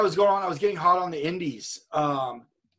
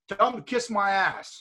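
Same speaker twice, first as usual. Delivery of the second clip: slow gruff joke insult; Steve Austin's retort; 3 semitones higher, slower than usual. Retold or imitated. Steve joking about the buddy on the phone, slow. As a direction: lay it on slowly, deadpan. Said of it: "He goes".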